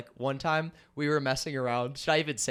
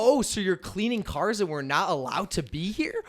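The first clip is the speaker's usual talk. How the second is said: mock outrage; 5 semitones higher than usual. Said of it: "I'm like".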